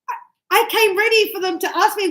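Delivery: acted high, fast, flustered protest; frustrated student. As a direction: play a learner whose preparation failed. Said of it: "a lot of you get frustrated".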